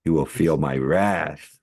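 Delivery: slow, lightly voiced brooding loner; a hint of a tortured loner, drawn out slowly; mock brooding monologue. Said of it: "That kind of stuff".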